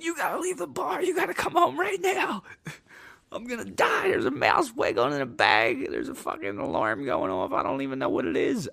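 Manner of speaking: high, fast panicked begging; frantic plea. Retold or imitated. On the phone begging his girlfriend home, high frantic panic. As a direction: beg her to come home in a panic.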